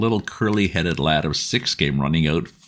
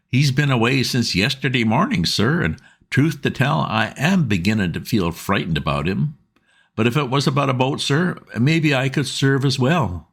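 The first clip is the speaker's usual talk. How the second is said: higher, chatty landlady voice; a talkative working-class mother; Mrs Smith; 9 semitones higher than usual. A narrator's reading. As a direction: voice of a fretful riverside wife.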